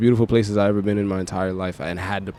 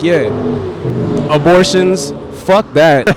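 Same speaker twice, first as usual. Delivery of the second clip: higher, louder, scornful put-on voice; mocking an old politician; 6 semitones higher, 6 dB louder, much slower than usual. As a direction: sneer like a careless old leader. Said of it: "one person be like".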